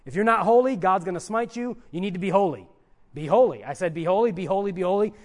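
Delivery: a hint of a hectoring legalist; insistent mock warning, pressing each repeat; stern legalist. Preacher voicing legalism to the congregation, sternly insistent. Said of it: "Legalism says God is holy".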